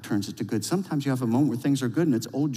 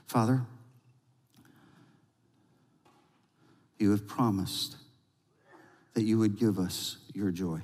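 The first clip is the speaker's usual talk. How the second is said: prayer. Acted. Leads congregation in prayer.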